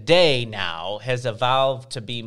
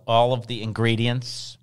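mock wail; 2 semitones lower, 3 dB louder than usual. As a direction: whine it like a mock sob. Wailing over the ingredients.

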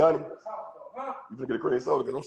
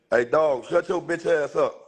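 slow, raised bark at the dog; telling the barking dog off, slow and raised; scolding the dog; 5 semitones higher, slower than usual. Real, not acted. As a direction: snap at the dog to shut up.

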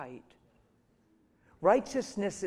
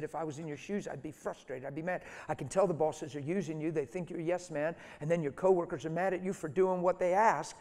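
frustrated supervisor. Retold or imitated. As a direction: let the frustration rise to the end. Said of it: "And he's frustrated on the phone".

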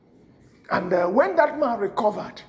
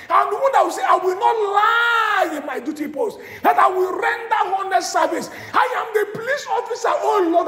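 lamenting shout. Acted. Voicing a believer's complaint to God.

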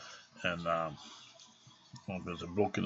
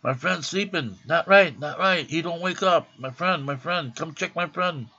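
Greek friend pleading; 8 semitones higher, 6 dB louder than usual. Retold or imitated. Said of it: "he goes".

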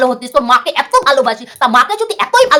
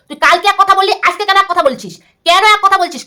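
raised, accusing voice, higher; angry scolding; 6 semitones higher than usual. Real, not acted. Vlogger scolding rival YouTuber for changing his story, angry. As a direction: demand an answer from him, heated.

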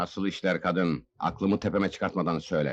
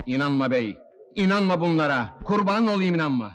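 pleading; 3 semitones higher than usual. Acted. Accused man begs the lord.

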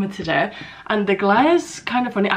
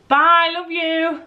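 sing-song goodbye call; 8 semitones higher, much slower than usual. Real, not acted. Calling goodbye to departing partner.

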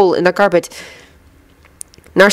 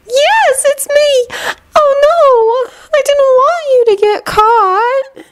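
dreamy distant voice; much slower than usual. A narrator's reading. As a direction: drift through it, sad and gentle. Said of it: "upon recognizing the dreamy voice".

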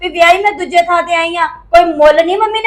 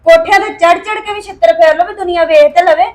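bitter sarcasm; 4 dB louder than usual. Acted. Wife sarcastically berates husband.

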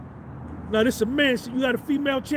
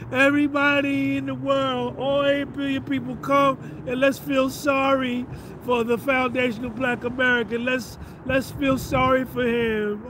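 higher, mock-pleading call to the world; sarcastic pity plea; 3 semitones higher than usual. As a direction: ham up the pity appeal.

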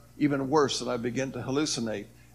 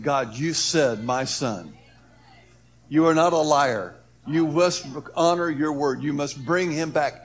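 mother crying out; 4 dB louder than usual. Retold or imitated. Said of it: "I hear my mother crying out".

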